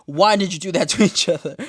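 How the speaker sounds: mock outrage at the kiss, laughing at the end; exasperated rant. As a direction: rant at the women in disbelief. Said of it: "I'm like".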